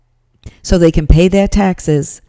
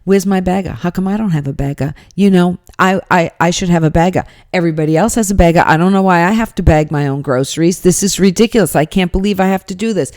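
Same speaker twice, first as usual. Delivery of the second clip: mock complaining; faster than usual. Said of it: "She's complaining the whole time".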